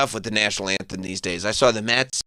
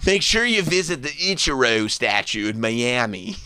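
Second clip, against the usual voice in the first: mock tourism ad; 3 semitones higher, slower than usual. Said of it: "Buddy Dyer".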